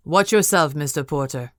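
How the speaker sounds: a lord chiding a careless guest at the table. Acted. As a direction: scold the boy firmly. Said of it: "the man at the head of the table chided".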